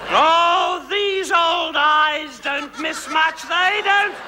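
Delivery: loud and slow, savouring it; slow knowing boast. Acted. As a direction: drag it out loud like a sly old dame. Calling out to the audience.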